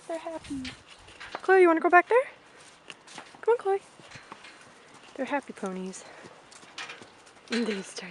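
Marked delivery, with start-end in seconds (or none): 1.4-3.8 loud, high call to Chloe. Real, not acted. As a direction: coax her over from afar. Calling the pony along.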